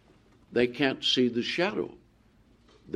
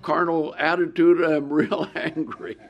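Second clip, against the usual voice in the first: mock prayer; 4 semitones higher than usual. Shown as a demonstration. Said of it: "get on your knees and say".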